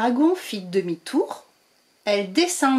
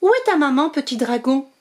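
gentle question; 4 semitones higher than usual. Acted. Witch asking the baby dragon where its mother is, gentle higher voice.

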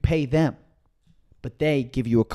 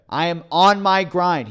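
loud quote; 5 semitones higher, 5 dB louder, slower than usual. Retold or imitated. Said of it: "He said it loudly".

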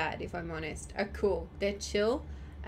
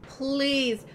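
desperate pleading; 6 dB louder than usual. Real, not acted. Gamer begging at game.

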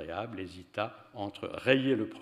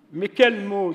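high, loud bewildered ask; Alice demanding which word, high and loud; puzzled question; 11 semitones higher, 12 dB louder, slower than usual. A narrator's reading. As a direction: sound baffled and pressing.

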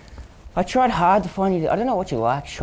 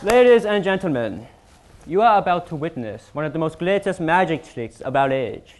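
lightly voiced stage magician; grand showman announcement. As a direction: proclaim it like a ringmaster.

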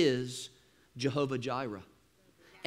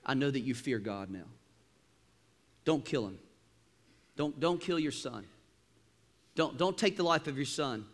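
gentle angel; 3 semitones lower, 5 dB quieter than usual. Retold or imitated. Angel voiced gently, Maxwell translation.

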